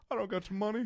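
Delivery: silly put-on voice; random voice. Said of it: "doing random voices".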